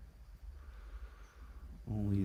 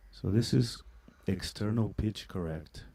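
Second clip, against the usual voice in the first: auto-tune style processed voice; pitch correction effect; 3 dB louder than usual. Shown as a demonstration. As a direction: voice through external pitch correct. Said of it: "auto-tune".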